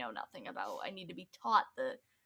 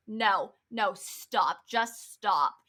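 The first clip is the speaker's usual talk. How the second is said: mildly irritated, louder imitation; retold testy interruption, firmly punched; pissy cut-off; 5 dB louder, much slower than usual. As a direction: cut someone off with mock impatience. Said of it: "she gets all pissy".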